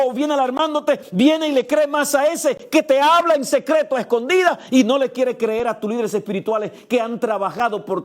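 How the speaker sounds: high, loud, driving sermon voice; fervent preaching. Acted. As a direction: preach it out to the whole church. Preaching at full force.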